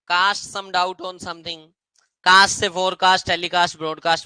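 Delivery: slow, spaced words; walk through the cast words slowly; teacher listing related words; slow word demo. Shown as a demonstration. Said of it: "cast your vote भी होता है".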